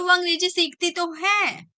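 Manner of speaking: a touch of irritation, defending her; mock annoyed insistence. Defending that she learns English, mildly annoyed. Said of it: "तो आप गुस्से में आके बोलो".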